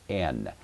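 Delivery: "N" begun on the vowel, no H sound; smooth breathing. Shown as a demonstration. Teacher showing that smooth breathing leaves "N" without an H. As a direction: say "N" as "en", without aspiration. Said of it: "this word would be pronounced N".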